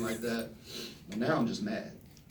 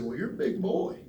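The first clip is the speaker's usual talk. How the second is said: higher put-on coach voice; coach's voice; 7 semitones higher than usual. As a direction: coach sizing up the kid, in a raised put-on voice. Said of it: "he kinda talked like this".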